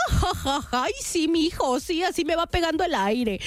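lightly voiced amused mother; mock chuckle, then play along cheerfully; a hint of a tickled mom; imitating laughing mom. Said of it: "Y mi mamá".

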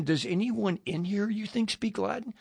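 softened voice imitating a whisper; retold whisper. Newcomer quietly asking a friend during Mass, retold whisper. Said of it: "I'm whispering again".

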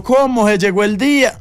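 high, thrilled disbelief; delighted. Retold or imitated. Friend hearing about arepas, high and delighted. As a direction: pitch it high as if your dream came true. Retells his delighted reaction.

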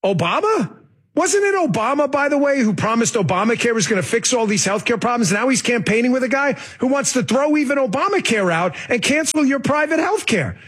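mock-incredulous questioning, lightly done; sarcastic. Host voices a columnist questioning Obama, mildly sarcastic. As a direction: read it as a pointed, sarcastic question. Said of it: "He's saying this sarcastically".

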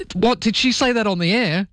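retold disbelief. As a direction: act out a colleague's astonished query. Retelling colleague's shocked reaction.

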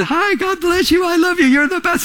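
high, sugary put-on friendliness; fake sweet greeting. To a churchgoer, mock sugary greeting. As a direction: gush it like you don't mean it. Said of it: "that kind of person where you say something".

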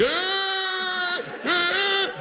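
high Phelps-style gasps out of water; high gasping shout. Retold or imitated. Sneezing man in the grocery aisle, high gasping shout. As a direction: gasp high like surfacing from a pool. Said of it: "I'm not walking out like".

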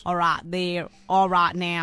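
playful Texas twang; mock-Texan accent; put-on Southern drawl. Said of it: "Can you do it in your normal voice".

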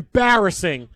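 mild mock yell; a heckler's jab at the passing anchor. Imitated heckler calling out embarrassing. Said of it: "that guy says".

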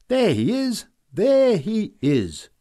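put-on high, loud piping child voice, the second call slow. A narrator's reading. Little Elsa spotting Karl, piping high and loud. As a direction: pipe it out like an excited little girl. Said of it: "piped Elsa".

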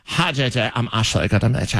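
imitated Valley Girl accent; mock basic Californian vowels; California accent. New coworker introducing herself on radio, mock Valley Girl accent. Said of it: "the most basic of California accents".

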